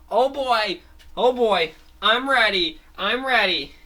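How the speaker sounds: can't wait to start; giddy cartoon hero; eager hero. Fango eager in Starlight.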